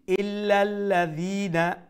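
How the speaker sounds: ইল্লাল্লাযীনা chanted high and slow with the i lengthened; long vowel, soft dhal. Shown as a demonstration. Teacher reciting for students, slow chant with long i in ইল্লাল্লাযীনা. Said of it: "এক আলিফ লম্বা".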